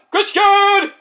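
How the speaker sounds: high, dramatic call of the name; high ringing reveal; announcer call. Retold or imitated. Announcing surprise replacement.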